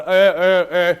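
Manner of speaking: mock frozen "uh" noises; helpless stammered "uh". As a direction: repeat a dumb, helpless "uh". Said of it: "I was just stood there going".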